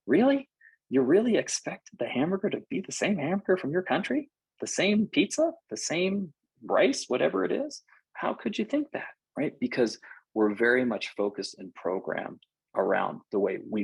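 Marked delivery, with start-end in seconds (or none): 0.0-9.1 high, rising mock incredulity; incredulous. Speaker mocking a frustrated traveller, high incredulous rise. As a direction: scoff at someone expecting the same food everywhere. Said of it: "you're like".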